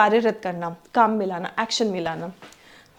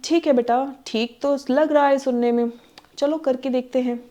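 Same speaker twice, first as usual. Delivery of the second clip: mildly acted hesitant parent; lightly voiced tentative go-ahead; cautious approval. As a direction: give a guarded okay, not fully convinced. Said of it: "ये एक cautious approval है".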